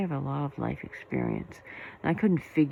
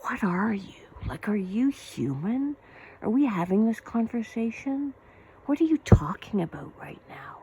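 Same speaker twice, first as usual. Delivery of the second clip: incredulous whisper; 8 semitones higher than usual. Retold or imitated. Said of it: "and I'm almost like".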